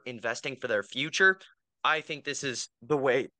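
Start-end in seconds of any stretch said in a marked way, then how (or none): 1.8-3.3 words pushed out through a burp. Real, not acted. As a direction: talk through a small burp. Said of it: "Burping a lot".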